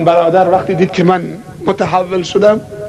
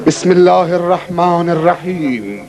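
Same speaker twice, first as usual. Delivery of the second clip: Quran recitation; 3 semitones lower, slower than usual. Acted. Recites the basmala slowly.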